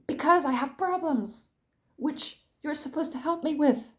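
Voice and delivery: frustrated, emphatic retelling with mild anger; exasperated complaint, rising at the end; retold, now angry. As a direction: press each point with contained anger. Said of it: "angrily in the way that I'm doing now".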